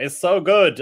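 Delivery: high, loud mock German accent. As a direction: imitate gushing fans in a German accent. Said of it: "In that accent".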